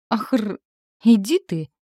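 a stunned, loud outburst at the sight; gawking husband, loud amazed exclamation. A narrator's reading. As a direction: blurt it out in amazement. Husband gawks at naked goddess.

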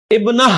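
ابنہ in pause, closed with an h; stopping on h. Shown as a demonstration. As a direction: stop on ابنہ with h, not t. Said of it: "رک رہے ہیں".

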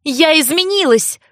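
high, insistent exclamation; cried out. A narrator's reading. Heroine insists to Chris she has changed, crying out. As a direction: cry it out in protest. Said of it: "крикнула я".

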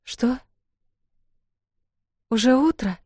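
drowsy, just woken up; sleepy mumble. Acted. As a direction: mumble it half asleep. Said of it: "сонно пробормотала Эл".

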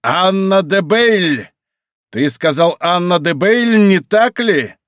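high, intense exclamation, slow on the name; потрясённое восклицание. A narrator's reading. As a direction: cry it out, then press for confirmation. Monk exclaims at the revealed name. (взволнованно восклицая)

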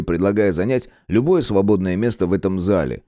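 ordinary delivery

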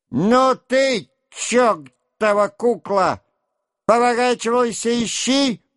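high, furious yell at the servant; angry shout. A narrator's reading. Denisov yelling at his servant to search. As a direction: bellow it out in rage, words dragged. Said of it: "вдруг закричал Денисов".

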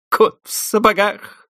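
high, slow strangled giggle; stifled laugh. A narrator's reading. Sasha blurting a joke, stifled laughter. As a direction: choke back laughter. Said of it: "сдавленным от смеха голосом".

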